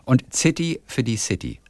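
slow, "City" first with a hard Z, "Zity", then with S; Berlin pronunciation. Shown as a demonstration. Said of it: "mit hartem Z". (langsam "City" mit hartem Z, dann mit S)

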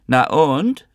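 high-pitched call from another room; mother's challenging shout. A narrator's reading. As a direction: call back defiantly, rising high. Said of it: "rief Mamasche von hinten aus der Wohnung".

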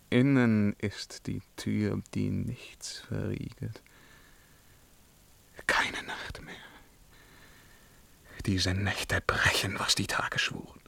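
haunted whisper. Acted. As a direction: whisper as if confessing in the dark.

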